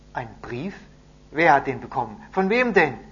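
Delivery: excited questions. A narrator's reading. Captives ask messenger about the letter, loud and excited. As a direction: fire questions from the crowd.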